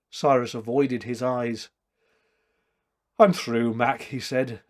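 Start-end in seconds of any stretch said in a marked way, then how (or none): 3.2-4.0 dully. Acted.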